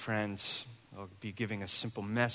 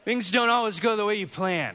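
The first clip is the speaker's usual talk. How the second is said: higher, louder through laughter; laughing; 8 semitones higher, 7 dB louder than usual. Real, not acted. Pastor laughing before stating the sermon point. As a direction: still laughing as you say it. Laughing take, then repeated plainly.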